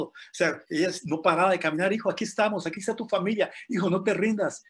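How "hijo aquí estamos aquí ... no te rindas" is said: mother calling out. Retold or imitated. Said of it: "ella lo animaba con el megáfono".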